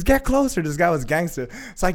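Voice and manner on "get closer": high, loud command; imitating a yelling skydive instructor; yelled order. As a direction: shout it like an impatient instructor. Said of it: "The guy's yelling at me".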